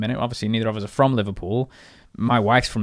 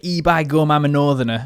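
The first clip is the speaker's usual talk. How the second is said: higher, louder stock Northerner; ee-by-gum Northern English caricature; hammed-up Northern English accent; 4 semitones higher, 4 dB louder than usual. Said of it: "come across as a bit like".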